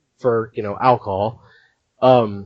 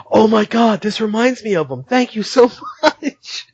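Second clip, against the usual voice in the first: mock touched gratitude; 8 semitones higher than usual. Retold bully moved by gift.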